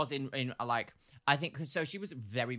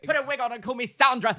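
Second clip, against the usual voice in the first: manager amazed; 8 semitones higher, 10 dB louder than usual. Retold or imitated. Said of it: "my manager being like".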